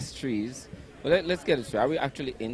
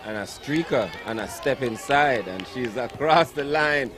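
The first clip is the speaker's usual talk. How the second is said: excited play-by-play; 4 semitones higher, 5 dB louder than usual. Real, not acted. Live try call by commentator.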